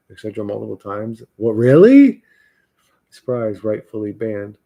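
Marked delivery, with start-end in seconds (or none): 1.4-2.2 loud, rising disbelief; what, really, pushed up loud; sarcastic surprised outburst. Real, not acted. Reacting to chat, loud.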